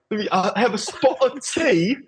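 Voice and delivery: high, hammed-up mock English accent; bad English accent. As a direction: joke about a spot of tea in a badly faked English accent. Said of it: "bro, it's so bad".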